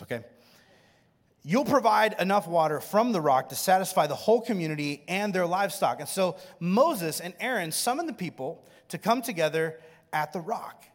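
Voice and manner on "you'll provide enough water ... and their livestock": booming command. Acted. God's command read aloud.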